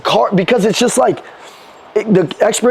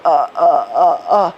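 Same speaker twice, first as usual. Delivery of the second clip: hesitant uhs; 3 semitones lower, slower than usual. Shown as a demonstration. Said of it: "It's like".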